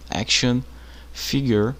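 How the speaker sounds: action figure said slowly in English; English pronunciation. Shown as a demonstration. Teacher spelling out action figure for students. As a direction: pronounce action figure carefully, English style. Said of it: "o action figure é o Max Steel".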